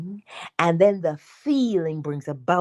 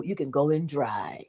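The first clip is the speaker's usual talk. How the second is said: whisper; 4 semitones lower, 6 dB quieter than usual. Real, not acted. Aside on dry scraping.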